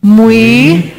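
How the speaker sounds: phrase slowed with the crowd; slow group recitation. Shown as a demonstration. Saying the phrase together with the church, slowly. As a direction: lead them slowly together. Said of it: "I'll say it with you last time".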